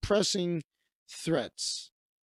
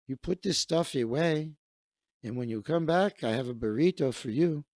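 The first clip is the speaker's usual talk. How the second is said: put-on older host laying down the plan in a light Mexican accent; 3 semitones lower than usual. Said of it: "likes my Mexican voice".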